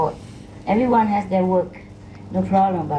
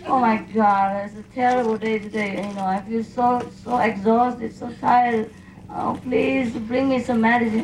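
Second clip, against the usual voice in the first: put-on babying myself. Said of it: "I say".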